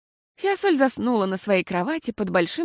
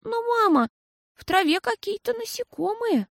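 high, hesitant little voice; timid babble; 12 semitones higher than usual. A narrator's reading. Girl worries to mama about insects, timid and high. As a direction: falter it out timidly. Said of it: "робко пролепетала она".

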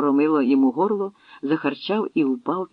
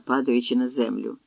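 ordinary delivery

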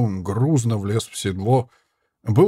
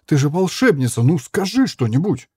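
higher and louder, pleading outcry; protesting shout; 6 semitones higher, 4 dB louder than usual. Acted. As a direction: shout at her to save herself. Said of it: "протестующе выкрикнул наёмник". (наёмник протестует и кричит волшебнице: громкий отчаянный крик)

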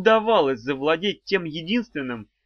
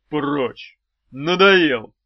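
commanding; 7 dB louder, much slower than usual. A narrator's reading. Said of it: "приказал он".

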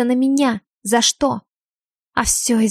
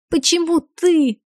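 squeezed out; 7 semitones higher, slower than usual. A narrator's reading. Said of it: "выдавила она".

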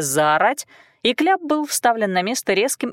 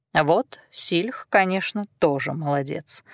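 plain reading voice

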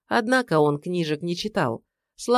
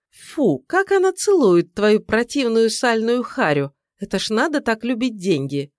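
loud disgust; 5 semitones higher, 4 dB louder than usual. Acted.

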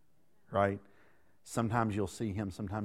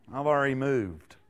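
laughing reply; 3 semitones higher, 6 dB louder than usual. Retold or imitated. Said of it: "picture God in heaven in response going".

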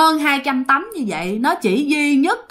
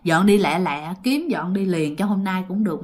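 scared father; 3 semitones lower, 4 dB quieter than usual. Retold or imitated. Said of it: "ba của bạn rất sợ".

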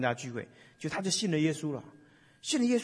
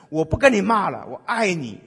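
declaring love; 4 semitones higher, 8 dB louder than usual. Pretend. New response to conflict.

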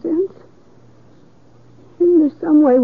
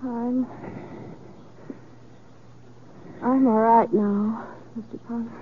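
dazed and quiet; 6 semitones lower, 7 dB quieter than usual. Acted. Calm after hysteria, soft low.

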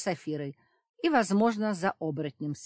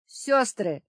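holding back laughter; 5 semitones higher, 7 dB louder than usual. A narrator's reading. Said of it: "едва сдерживая смех".

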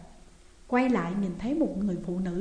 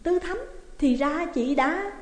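startled, higher gasp of recognition; 6 semitones higher, slower than usual. A narrator's reading. Tâm caught out by Tư Thắm, startled. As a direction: jolt as the name lands. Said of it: "mụ Tâm mới giật mình".

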